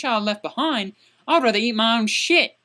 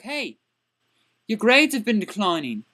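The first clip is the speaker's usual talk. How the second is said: gentle approach. Shown as a demonstration. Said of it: "You go up to them and be like".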